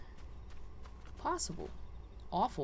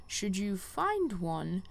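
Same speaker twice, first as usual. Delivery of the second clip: lightly voiced wise quest giver, a bit higher; a hint of a solemn guide sending the hero on; 3 semitones higher than usual. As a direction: read the mentor's lines with gentle gravitas, hushed in places. Reads quest giver lines aloud.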